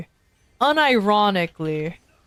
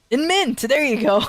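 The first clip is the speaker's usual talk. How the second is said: triumphant; 5 semitones higher than usual. Real, not acted. Finally finds a rhyme.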